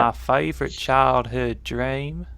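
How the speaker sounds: slow, drawn-out Southern American; American accent. Pretend. Restarting the answer for the stream, in American accent. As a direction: stretch it out in a put-on American accent. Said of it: "I've got to do this in American".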